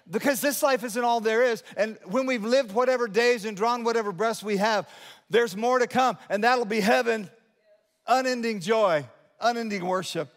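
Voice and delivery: impassioned preaching. Real, not acted. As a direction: preach it out with rising conviction. Preaches on heaven.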